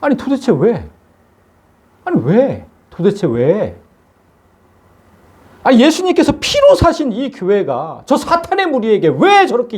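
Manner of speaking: exasperated, high-pitched demand for an answer; mildly angry lament with the pitch leaping up; retold anger. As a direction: relive indignant disbelief, pleading to know why. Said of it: "나중에 화가 났죠".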